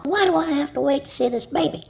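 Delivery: high-pitched complaining question; impatient protest. Acted. Friend demands to see the new baby, impatiently. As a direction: protest the wait.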